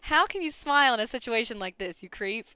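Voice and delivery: put-on indignant questioning in an amateur Australian accent. Game character challenging a creep who smiles, Australian accent. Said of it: "with the characters just as my normal talking voice".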